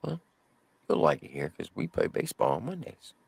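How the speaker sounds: very soft, quiet, gentle voice. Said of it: "in the most softest voice I ever heard".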